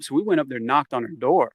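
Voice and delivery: ordinary delivery, nothing marked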